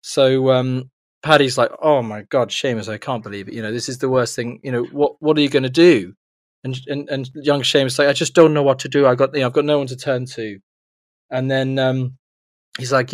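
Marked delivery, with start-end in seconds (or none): 1.8-6.1 lightly put-on Irish postman; a hint of badly faked Irish; bad Irish accent. Postman commiserating with young Seamus, bad Irish accent. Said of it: "your Irish accent". 8.1-10.6 lightly put-on Irish boy; a hint of badly faked Irish; bad Irish accent. Young Seamus with no one to turn to, bad Irish accent. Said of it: "your Irish accent".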